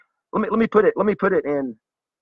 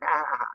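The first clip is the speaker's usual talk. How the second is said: soft mock laughter; put-on ha-ha-ha; imitated child's laugh; 7 dB quieter, faster than usual. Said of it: "They'll be like".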